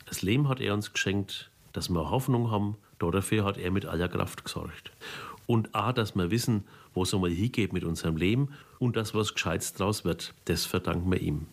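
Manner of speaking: Psalm recited in Franconian dialect. Shown as a demonstration. Pastor reciting his favourite psalm, in Franconian dialect. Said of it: "So klingt der Psalm achtundneunzig auf Fränkisch".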